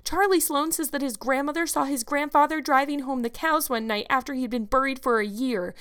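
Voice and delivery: put-on high, excited girlish storytelling; eager insistence. A narrator's reading. Anne tries to convince Marilla of ghosts, excitedly.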